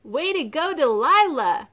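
high, whooping cheer at full volume; loud cheer. A narrator's reading. A friend cheering Delilah on, loud whooping cheer. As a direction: cheer her on, loud and high with swooping pitch. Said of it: "a voice cheered".

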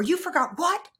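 high, loud, outraged question; indignant disbelief. Retold or imitated. Imitating her angry reply to her partner, high and loud. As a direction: demand he repeat himself.

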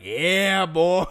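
loud, drawn-up hype; hyped-up retold voice. Girlfriend's dad egging on a teenager, hyped. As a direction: play the eager snake hunter, loud. Acted quote of hyped snake hunter.

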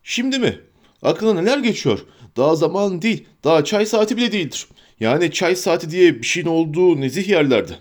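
a testy hobbit, quick; indignant Sam. Acted.

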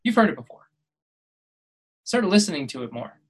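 normal talking voice

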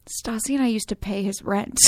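hushed aside, half laughing; whispering. Retold or imitated. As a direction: say it under your breath. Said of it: "whispered to Kristen".

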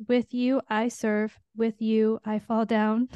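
slow, deliberate chorus read. Shown as a demonstration. Nurse reading the chorus she cried to, slow and heartfelt. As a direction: lean into each word, slow and heartfelt. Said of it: "And the chorus goes".

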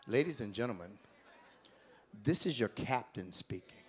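low soft pilot voice; a hint of captain on intercom; airport announcement. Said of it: "I wish I had your voice now".

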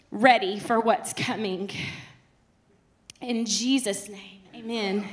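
earnest prayer, slowing toward amen. Acted. Pastor praying over the congregation, earnest prayer. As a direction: pray it over the room, fading at the end. Closing prayer before the sermon.

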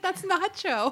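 excited recognition. Retold or imitated. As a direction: re-enact recognizing a famous cat. Retells recognizing the famous cat.

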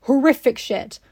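mock stiff-upper-lip gentleman; stoic Victorian gentleman. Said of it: "you can't just be like".

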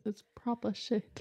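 playful copy of a British "proper"; Ren's British accent. Retold or imitated. Repeating the co-host's favourite phrase, imitated British accent. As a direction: mimic a British accent, drawn out. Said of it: "I love Ren when she goes".

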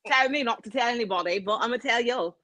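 lightly imitated British man; British accent. Confiding the British man's secret, mock British accent. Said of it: "finished his fucking accent".

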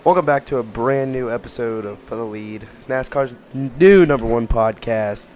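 hoarse, strained voice from sickness; lost voice. Real, not acted. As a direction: talk through a lost, hoarse voice. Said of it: "I have lost my voice".

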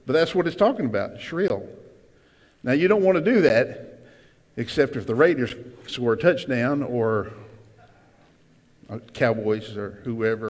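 ordinary talk, nothing marked

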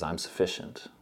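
low, soft, assured answer; lightly voiced God, calming a doubt; gently certain, dropped in pitch; quiet reassurance.

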